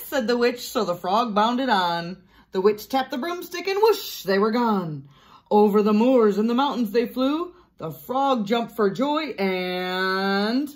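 lively, sing-song story reading; picture-book narration. A narrator's reading. Teacher reads Room on the Broom aloud, animated storytelling. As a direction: read it out with storybook drama, building to the mishap.

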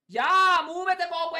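loud, bossy fake German accent. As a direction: bark orders in German accent. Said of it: "adesso inizia a fare pure tedesco".

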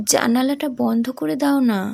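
put-on a sick girl's faint, tired plea; tired, weary. Feverish daughter to her father, mildly weary. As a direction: ask wearily, drained of strength. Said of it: "খুব ক্লান্ত অবসন্ন কণ্ঠে বলল".

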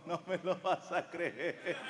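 laughing. Retold or imitated. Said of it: "me dice riéndose".

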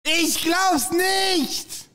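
slow, stretched disbelief; can't believe it, shouting; stunned shouting. Real, not acted. Disbelief after the big win. (fassungslos schreiend)

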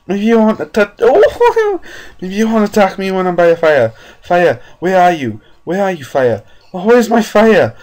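very high frantic shrieking; terrified, high-pitched panic; panicked screaming. Real, not acted. Hunted in dark, searching fire.

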